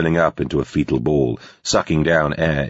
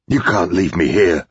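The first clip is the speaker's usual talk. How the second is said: pleading. A narrator's reading. Terrified woman begs Greg.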